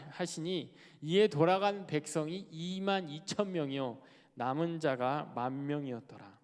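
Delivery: measured formal Bible reading; scripture reading. Acted. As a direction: read the verse out deliberately. Reads scripture aloud. (성경을 낭독하듯 또박또박)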